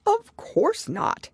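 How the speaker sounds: very high, very slow wail; a drawn-out mournful turtle; Mock Turtle. A narrator's reading.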